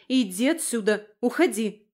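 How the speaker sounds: forceful shooing; shooing away. Acted. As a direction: order the beast out urgently. Chasing the wolf away.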